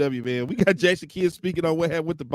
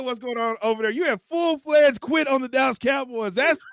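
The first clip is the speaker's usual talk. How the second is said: higher, mock-accusing tease; teasing; 8 semitones higher, 3 dB louder than usual. Real, not acted. Teasing his co-host for quitting on the Cowboys, high and playful. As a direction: needle him about quitting.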